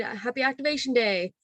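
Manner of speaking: mildly lifted, friendly well-wishing; congratulatory. Retold or imitated. Worker congratulating guests on their activated droid, cheerful. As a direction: offer a cheerful little congratulation.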